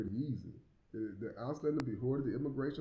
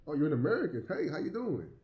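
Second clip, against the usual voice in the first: imitating delighted locals; 5 semitones higher, 4 dB louder than usual. Quoting delighted Germans meeting him.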